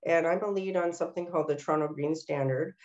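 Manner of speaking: stuffy nasal voice, still congested. Real, not acted. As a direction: talk through a stuffy nose. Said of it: "my nasal sounding voice".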